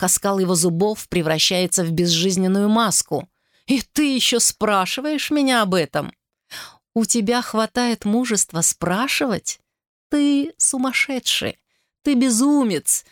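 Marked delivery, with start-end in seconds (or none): 3.7-13.0 mocking taunt. Brother mocking and taunting Joseph.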